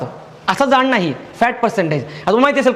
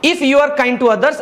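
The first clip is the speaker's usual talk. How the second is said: very slow, slightly raised reading; slow dictation; 2 semitones higher, much slower than usual. Shown as a demonstration. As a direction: read the example slowly. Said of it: "मग आता पुढचं वाक्य बघा".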